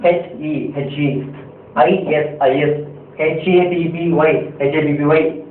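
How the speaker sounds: ஹெச் இ said as separate letter names, slowly; spelling out letters. Shown as a demonstration. Teacher showing the wrong way to read English. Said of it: "இப்படின்னு படிக்க முடியாது".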